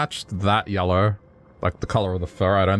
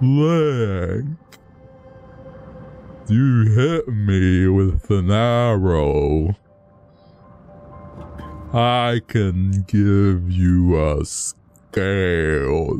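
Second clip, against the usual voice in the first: slow, dopey, derpy, goofy put-on character voice; 3 dB louder than usual. Voicing a character who speaks to link, in a slow, derpy voice. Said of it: "Such a slow and derpy voice".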